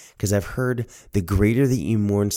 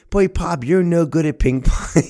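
high, louder teasing grandmother; ripping into him; 10 semitones higher, 4 dB louder than usual. Retold or imitated. Grandmother ribbing grandfather about ping pong, scornful. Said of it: "She just ripped him right up".

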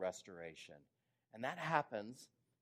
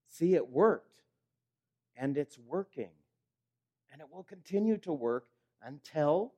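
Jesus declaring the cross worked, triumphant; 3 semitones higher, 8 dB louder than usual. Acted. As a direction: proclaim it like a victory. Jesus voiced looking at believers.

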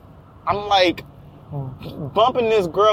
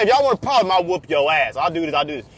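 calm tough guy; faster than usual. Retold or imitated. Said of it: "he said".

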